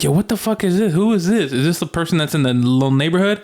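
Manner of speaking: high, alarmed and disbelieving; rattled by the stranger at the door; freaked-out yo. Retold or imitated. Retelling his reaction to the stranger, high and alarmed. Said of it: "and I'm like".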